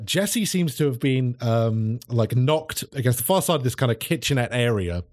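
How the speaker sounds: usual speaking voice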